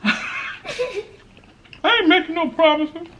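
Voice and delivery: laughs it out, slow and teasing; laughing. Real, not acted. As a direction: say it through a laugh, playful. Teasing banter at the table.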